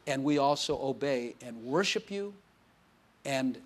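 measured phrases with long pauses; closing prayer. Real, not acted. Pastor praying to God for the congregation, deliberate prayer delivery.

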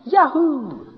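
high, loud whoop; hammed-up gleeful cheer; mock exuberance. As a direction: cheer like someone who's always up. Mimics an always upbeat pastor.

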